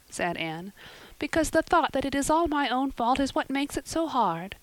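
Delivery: put-on high girlish voice, earnest; an earnest girl arguing her case; young Anne. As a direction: Anne reasons with Marilla from bed. Anne's voice, high.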